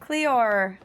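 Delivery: hammed-up Australian call; attempted Aussie accent. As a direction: have a hopeful go at an Aussie accent. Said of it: "can you an Aussie accent?".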